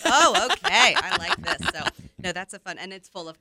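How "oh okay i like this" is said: high, laughing "oh, okay"; delighted reaction. Retold or imitated. Acting out being won over by the DJ voice, delighted. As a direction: act pleasantly won over, pitched up. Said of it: "I'm like".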